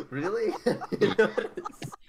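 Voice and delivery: laughing through the words. Real, not acted. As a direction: giggle while asking. Laughing at the sneeze.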